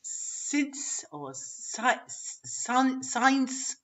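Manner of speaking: 'science' said haltingly as students muddle it; students' mispronunciation. Shown as a demonstration. Teacher imitating students muddling science and since, halting mispronunciation. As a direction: stumble on 'science', squashing it towards 'since'. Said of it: "students are still saying".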